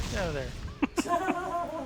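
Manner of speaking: high, slow, squeaky voice; squeaky high yell. Pretend. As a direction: stretch it out in a shrill squeak. Yelling at partner's character.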